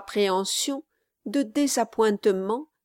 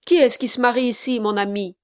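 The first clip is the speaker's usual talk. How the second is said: louder, fast, pressing demand; demanding gentleman; 2 semitones higher, 5 dB louder, much faster than usual. Acted. Gentleman at the wedding door, demanding and fast. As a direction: push the question hard and quick.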